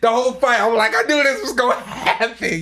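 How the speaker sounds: giggly retelling of the fight; laughing. Real, not acted. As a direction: chuckle as you recall it. Laughing while recalling the fight.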